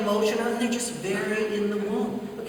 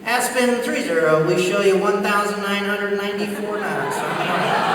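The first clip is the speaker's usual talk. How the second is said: measured official read-back, a little raised; same controller voice; 4 dB louder than usual. Retold or imitated. Controller answering the fastest plane, unchanged official voice. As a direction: imitate a controller showing no sign of amazement. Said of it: "just that same voice".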